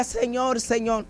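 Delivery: softened inner prayer; retold silent plea. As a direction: call to the Lord under your voice. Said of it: "en mi corazón yo decía".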